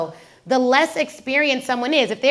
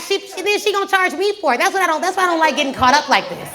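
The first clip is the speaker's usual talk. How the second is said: raised-pitch, worked-up complaint; comic grievance; 5 semitones higher than usual. Acted. Patient caught up chatting in the chair, comically aggrieved. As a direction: protest in a higher voice for laughs.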